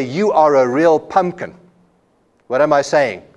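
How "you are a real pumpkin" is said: affectionate. Shown as a demonstration. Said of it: "And I grab her and I say".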